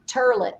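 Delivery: turlet, toilet with an "er" vowel; Bronx pronunciation. Retold or imitated. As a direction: quote Bronx dad saying turlet. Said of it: "he always said".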